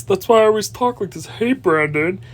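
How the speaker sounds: mocking impression of a creep's voice; imitating his voice. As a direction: mimic the creep's slimy tone. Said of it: "And then his voice".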